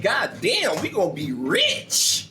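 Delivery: drawn-out, hammed-up gloating; mock jubilation. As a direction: play a lawyer relishing a big payday. Imagined gleeful lawyer reaction.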